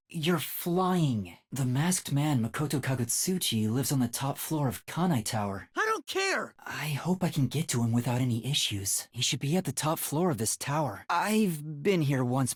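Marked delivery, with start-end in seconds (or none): 5.8-6.5 whispered outburst. Acted. Game line, sudden whispered outburst.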